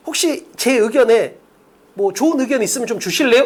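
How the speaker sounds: tentative, courteous acted request; politely seeking opinions. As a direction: ask humbly, as if open to learning. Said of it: "이런 느낌인 거잖아". (조심스럽고 공손하게 의견을 구하듯)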